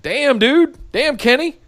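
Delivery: high-pitched damn, Kenny; exasperated high exclaim. Real, not acted. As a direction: pitch it up in disbelief.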